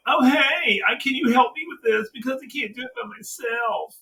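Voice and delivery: high, mocking whine; a lightly whiny begging voice; mock whiny villain. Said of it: "whiny bitch ... going".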